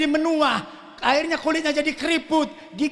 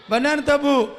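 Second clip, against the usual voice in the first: a bit louder, coaxing an answer; louder call-and-response prompt; pressing repeat; 5 dB louder than usual. Shown as a demonstration. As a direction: push the crowd to reply.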